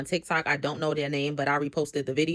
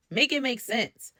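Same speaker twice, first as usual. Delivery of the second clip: exasperated; 6 semitones higher, slower than usual. Real, not acted. Exasperated comment on the fight.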